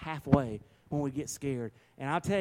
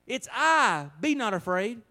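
Jesus speaking; 8 semitones higher, 5 dB louder, slower than usual. Acted. Jesus voiced reading scripture.

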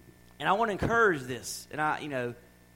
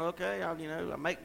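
weary cashier; 3 dB quieter than usual. Retold or imitated. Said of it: "Poor little cashier just sitting there going".

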